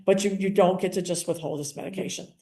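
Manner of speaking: even, measured reassurance; calm professional correction. Retold or imitated. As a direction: settle her down firmly but kindly. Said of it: "but I said it in a calm way".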